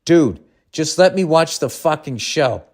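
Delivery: slow, measured stern demand; stern retort. Retold or imitated. Annoyed audience member to a chatty man at the show, stern. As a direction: read it as a firm, deliberate telling-off. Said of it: "as sternly as I could say".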